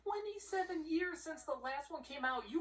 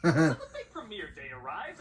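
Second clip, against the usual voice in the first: excited announcer; 8 semitones lower, 11 dB louder than usual. Acted. Hyped announcement of plot.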